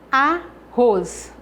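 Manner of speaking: "Arroz" split slightly, force on the final "roz"; teacher showing the strong last syllable of "Arroz"; stress on roz. Shown as a demonstration. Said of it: "O ros é a sílaba tônica".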